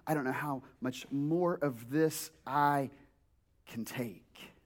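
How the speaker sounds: low, fading despairing voice; weary despair. Retold or imitated. Someone worn down by nagging, low fading despair. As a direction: sound worn down, near giving up. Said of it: "you go like".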